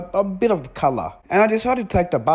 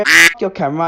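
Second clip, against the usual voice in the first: louder, a sudden defiant yell; retold yell; 7 dB louder than usual. Defiant passenger yelling at the driver's camera. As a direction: spit it out at the camera.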